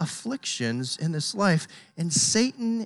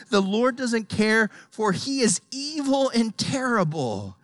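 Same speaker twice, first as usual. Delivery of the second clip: Satan whispering; 3 semitones higher than usual. Acted. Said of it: "he's gonna say".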